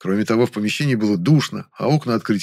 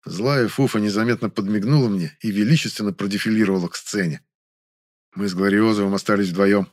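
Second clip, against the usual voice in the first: usual speaking voice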